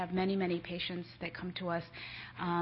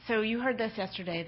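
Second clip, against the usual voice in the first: louder, projecting to the room; bigger voice; 3 semitones higher, 4 dB louder than usual. Real, not acted. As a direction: speak up so the back rows hear. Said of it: "I have a really big voice".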